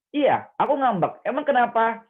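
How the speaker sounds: loud, high-pitched sulky retort; acted angry comeback, defiant and loud; genuinely angry. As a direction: snap back, openly admitting the anger. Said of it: "dia memang beneran marah".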